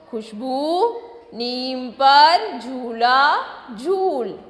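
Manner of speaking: slow, clear reading to a class; slow reading for children. Shown as a demonstration. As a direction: read each phrase slowly so children can follow. Teacher reads text slowly to children. (बच्चों के लिए धीमा पाठ)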